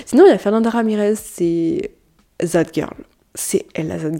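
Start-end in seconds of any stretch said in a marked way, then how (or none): 2.4-4.2 breathy hush on the name; whispered label. Real, not acted. Podcaster whispers the nickname of a youtuber to listeners. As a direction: whisper the trend name like a secret. Names the "That Girl" trend.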